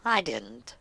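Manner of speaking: short dry whisper; whispered punchline; whispered aside. Real, not acted. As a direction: drop it in a whisper. Wry aside.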